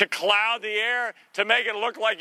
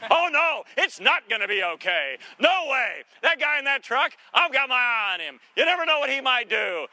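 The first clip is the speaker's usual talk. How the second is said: high, indignant dog talking back; dog's voice; 6 semitones higher than usual. Acted. Pastor voices his dog Xena, defiant and pitched up. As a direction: play the suspicious dog, pitched up.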